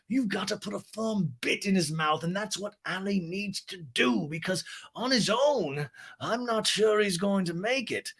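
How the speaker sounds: high, soft, slow posh voice; breathy grande dame advice; Lisa impression. Lisa advises Allie in interview, high soft posh voice.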